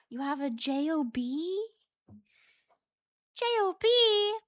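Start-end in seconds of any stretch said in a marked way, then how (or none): 3.3-4.4 higher, louder "J O B?"; mock shock. Real, not acted. Teasing a chatter about their job, mock shock. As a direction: feign amazement at a job.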